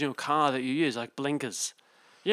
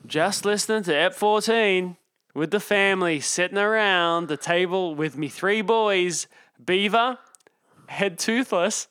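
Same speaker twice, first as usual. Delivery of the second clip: broad outback Australian drawl, slow and louder; mock Aussie country accent; 4 semitones higher, 3 dB louder than usual. Host reading a listener's email to cohost in mock Australian country accent. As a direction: read the email like an outback bloke, hammed-up. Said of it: "sort of out in the country accent".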